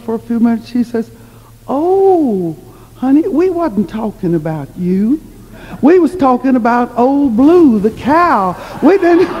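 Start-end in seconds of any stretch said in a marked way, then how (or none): 1.7-9.3 high, drawn-out 'oh' of sudden understanding; raised storytelling voice, building to a higher protest; acted dawning realization. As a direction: imitate granny clearing up a silly mix-up. Granny realizes the misunderstanding.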